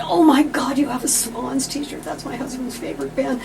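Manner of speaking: high, loud gush of delight; retelling an excited squeal. Retold or imitated. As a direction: squeal it like a fan spotting a treasure.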